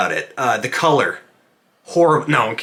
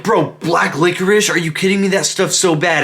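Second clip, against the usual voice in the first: imitating a friend's heated disgust, pitched up; passionate hatred; 5 semitones higher than usual. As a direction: act out a friend ranting about hated candy. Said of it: "super passionate about his hatred for this candy".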